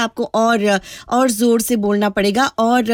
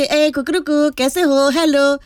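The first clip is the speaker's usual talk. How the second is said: casual greeting crow; 3 semitones higher, slower than usual. Retold or imitated. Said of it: "अब हम hello, हाय थोड़ी ना कर रहे हैं".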